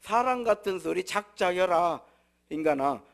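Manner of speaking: slow, loud scoffing in Jeolla dialect. Retold or imitated. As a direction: sneer it like a Jeolla local. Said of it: "전라도 말로".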